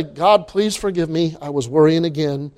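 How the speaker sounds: soft confession prayer. Acted. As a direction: pray it low and contrite. Preacher acting a confessing prayer.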